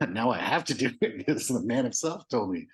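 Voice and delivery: a delighted laugh running through the words. Real, not acted. Telling the host about his orders from Jesus, laughing.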